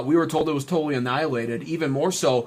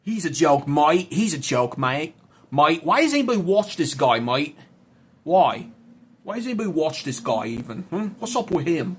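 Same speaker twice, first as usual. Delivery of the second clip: mock Australian.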